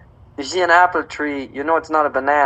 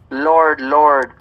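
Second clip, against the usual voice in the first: "Lord, Lord" louder, each word hit firmly; emphatic profession; 6 dB louder than usual. Acted. Preacher quoting those who emphatically profess faith, "Lord, Lord" stressed. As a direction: proclaim each "Lord" with added force. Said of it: "those who really emphatically profess".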